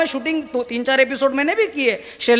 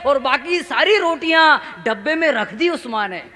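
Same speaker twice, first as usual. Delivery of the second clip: first recitation. Acted. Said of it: "आपकी संवेदना देखना चाहता हूँ".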